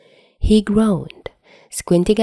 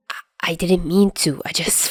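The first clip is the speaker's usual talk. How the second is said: guilty stammer; 4 dB quieter than usual. Acted. Guilty stammer after hurting Dazai.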